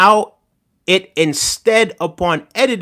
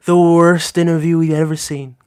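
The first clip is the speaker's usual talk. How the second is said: Trump impression repeated. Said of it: "How was that? Pretty decent".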